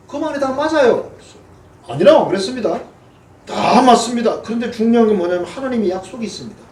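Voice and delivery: rally the crowd to charge in; rousing call to attack. Acted. Joshua and Caleb urge the attack.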